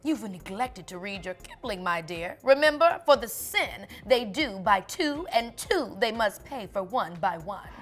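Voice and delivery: a hint of a snooty society lady; haughty grand lady. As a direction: look down your nose at her. Lady Miss lectures.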